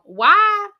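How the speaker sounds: high, loud disbelief; outraged why. Real, not acted. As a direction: exclaim in disbelief. Outraged exclamation in the story.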